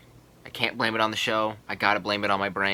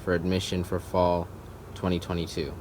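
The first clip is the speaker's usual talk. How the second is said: formal rejection letter; 3 semitones lower than usual. Acted. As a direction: read it stiffly like an official letter.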